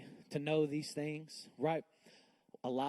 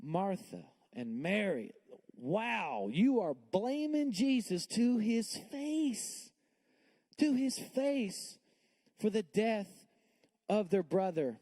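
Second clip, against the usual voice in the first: high, slow scandalized scolding; mock indignation; 6 semitones higher, slower than usual. Reader scolding Martha and Mary, high slow mock outrage. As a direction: scold them, appalled, stretching it out. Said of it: "read this and be like".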